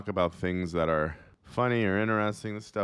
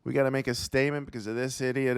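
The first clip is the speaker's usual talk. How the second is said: higher, baffled CEO voice; mock CEO; 4 semitones higher than usual. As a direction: play an outraged CEO caught off guard. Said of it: "the C E O of Listerine's like".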